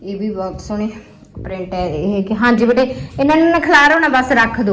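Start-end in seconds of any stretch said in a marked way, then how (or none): 2.3-4.7 calling out. Real, not acted. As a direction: call it across the room. Mother calls to child.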